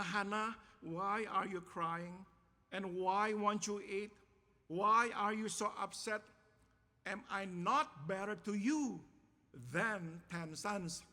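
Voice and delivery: clueless husband's earnest questions, mildly dramatised; oblivious husband. Acted. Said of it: "he obliviously asked this question".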